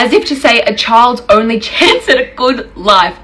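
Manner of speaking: incredulous, a laugh breaking in mid-phrase. Real, not acted. Woman retrying her point about needing a father, laughing. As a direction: try to say it through a real laugh. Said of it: "I'm laughing saying this".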